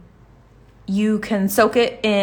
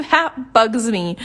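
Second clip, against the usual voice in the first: laughing; 3 semitones higher, slower than usual. Real, not acted. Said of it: "laughs at own annoyance".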